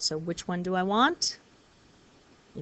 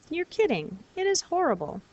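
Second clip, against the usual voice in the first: mock disgust; 8 semitones higher, faster than usual. Shown as a demonstration. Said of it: "just there for emphasis".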